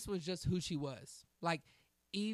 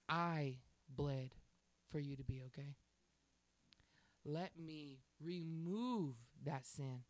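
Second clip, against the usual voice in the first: gentle divine voice; 3 semitones lower, slower than usual. Retold or imitated. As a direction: say it slowly like Christ inviting. Voicing Christ gently.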